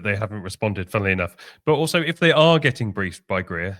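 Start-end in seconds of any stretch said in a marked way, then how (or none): 1.6-3.8 panting, out of breath; words squeezed between breaths. Real, not acted. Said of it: "sorry, I'm out of breath".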